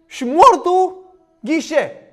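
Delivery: usual speaking voice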